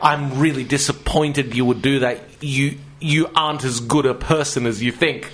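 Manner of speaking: understated parental disappointment; disappointed mum. Retold or imitated. Mum reproaching someone who was rude, mildly disappointed. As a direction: gently shame them like a let-down mum. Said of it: "shock and disappointment rather than anger".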